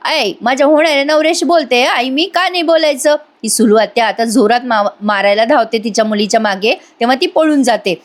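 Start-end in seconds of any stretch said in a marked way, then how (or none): 0.1-3.2 higher-pitched mock protest; indignant retort. Girl defying her mother over future husband, indignant. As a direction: talk back with acted indignation. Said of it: "आता ती चिडून म्हणते ती मुलगी".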